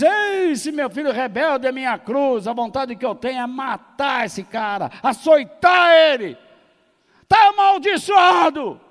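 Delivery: acted shouting tirade, high and loud; enraged father. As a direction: rant as a fed-up father, building to a yelled curse. Pai furioso com filho rebelde. (pai furioso aos berros, encenado)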